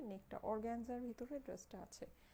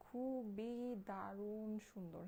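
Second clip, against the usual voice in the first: খুবই and দারুণ stretched long; very slow, lingering emphasis on খুবই দারুণ; drawn-out praise; much slower than usual. Real, not acted. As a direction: draw out each syllable of খুবই দারুণ to sell it. Gushing over dress to buyers.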